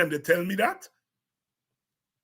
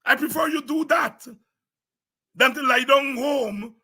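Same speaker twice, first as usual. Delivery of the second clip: emphatic shout; 6 semitones higher than usual. Real, not acted. Party leader urging voters to back any opposition party, shouting. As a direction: drive the point home to the crowd.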